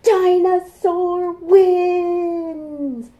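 high, loud, slow victory call; triumphant shout. Acted. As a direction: announce the winner, huge. Triumphant refrain.

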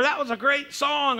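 high-pitched imitation of delight; mock gushing. Preacher mimics churchgoers praising the song, mock-thrilled. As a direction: gush like an impressed churchgoer.

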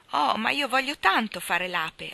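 put-on lamenting little-kid plea; plaintive whine. A narrator's reading. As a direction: whine it slowly like a pleading child. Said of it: "con voce lamentosa".

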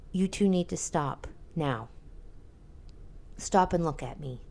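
quiet, measured command to stop; calm firm. Retold or imitated. Mom to bickering kids, quiet firm calm. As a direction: stop them dead with calm firmness. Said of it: "I have to do it calmly".

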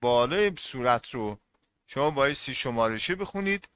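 usual speaking voice

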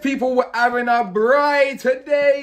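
high, loud put-on South African accent, hyped up; hammed-up South African cook; mock South African accent. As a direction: braai host in a jokey South African accent. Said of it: "How's my South African accent, people?".

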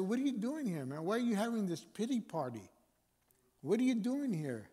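lightly voiced challenging God; God's challenge. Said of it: "God said".

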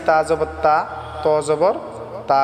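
ত জবর read wrongly as a thin "ta", like তা; wrong merged pronunciation. Shown as a demonstration. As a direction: say both তা and ত with the same light "ta". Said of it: "এরকম হবে না".

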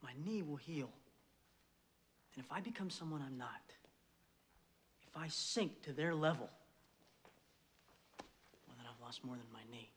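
quiet, earnest locker-room talk; halftime pep speech. Acted. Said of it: "halftime pep speech".

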